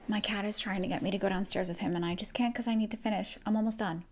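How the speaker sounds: murmured, hurried aside; quiet aside. Real, not acted. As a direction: rush a hushed explanation. Explaining cat aside quietly.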